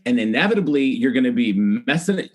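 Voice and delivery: a hint of a bossy mom laying down the law; voicing mom. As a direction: briskly lecture like a no-nonsense mother. Mom lecturing child.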